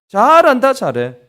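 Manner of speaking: exasperated parent, mock praise that means the opposite; sarcastic parent. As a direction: scold the kid with fake praise. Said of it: "되게 비꼬는 거죠".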